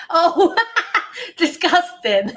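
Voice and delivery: put-on sorority girl voice through giggles; laughing sorority girl. Shown as a demonstration. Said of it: "spoken like an American sorority girl".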